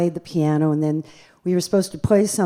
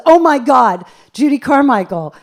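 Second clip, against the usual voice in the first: louder and higher, thrilled recognition; starstruck; 8 semitones higher, 9 dB louder than usual. Retold or imitated. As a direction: gush like a fan who can't believe it. Excited fan on the phone.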